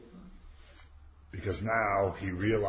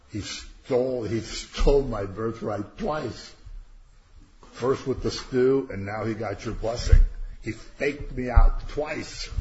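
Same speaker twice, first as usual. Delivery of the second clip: aggrieved, slow and emphatic retelling; mock angry Esau; 2 semitones higher, 6 dB louder than usual. Esau complains to his father about being cheated, mildly angry. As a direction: drive the complaint home, mildly indignant. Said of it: "he gets mad".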